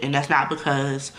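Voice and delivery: talking through hiccups. Real, not acted. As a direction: hiccup breaking the words. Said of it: "excuse me, I got the hiccups".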